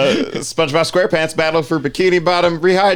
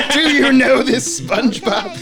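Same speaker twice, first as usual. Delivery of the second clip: furious Squidward; 11 semitones higher than usual. Retold or imitated. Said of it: "just be like".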